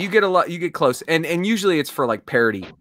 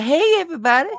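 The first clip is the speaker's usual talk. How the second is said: dim-witted Southern guy; 3 semitones higher than usual. Retold or imitated. Southern voice for a friend who asked for impressions. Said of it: "Southern guy who's a little dim-witted".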